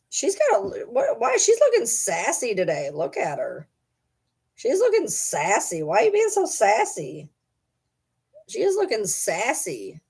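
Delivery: playful coo over her; teasing the dog. Real, not acted. Talking about the sassy dog.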